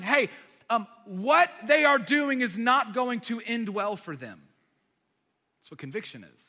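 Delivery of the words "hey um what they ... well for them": urgent warning. Acted. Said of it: "those nerve endings are telling your brain".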